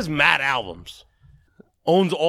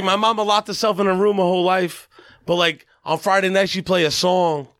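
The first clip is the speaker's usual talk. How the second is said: Jelly Roll; 4 semitones higher than usual. Retold or imitated. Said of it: "Impersonating him?".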